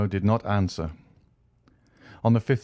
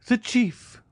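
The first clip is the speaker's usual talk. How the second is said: far higher, the second call cracking upward; despairing cry, climbing. Acted. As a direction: cry out again, pitch soaring in despair. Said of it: "he exclaimed".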